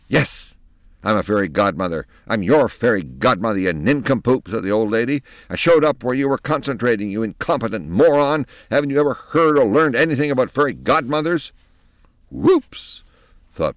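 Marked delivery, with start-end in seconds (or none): 0.1-4.5 put-on irritated old crone snapping; cranky old woman. Fairy godmother scolds Penelope. 5.5-11.5 put-on irritated old crone snapping; cranky old woman. Fairy godmother insults Penelope. 12.3-13.0 high startled whoops; surprised whoops. Acted. Penelope realizes her mistake.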